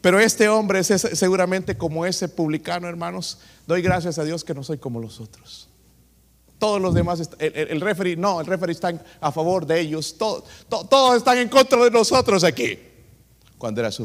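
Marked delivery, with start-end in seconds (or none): 3.7-12.8 mock-indignant coach, getting louder into a complaint; arrogant coach. Preacher mocking the coach who blames the referee, rising to loud protest. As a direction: play the self-righteous coach blaming the referee, building up.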